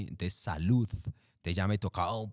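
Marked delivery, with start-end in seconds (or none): 0.3-0.9 "salud" with the last D pushed out; exaggerated final D. Shown as a demonstration. Narrator shows microphone diction, "salud" with exaggerated final D. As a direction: overdo the D that closes "salud". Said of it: "más fuerte para que medio se escuchara".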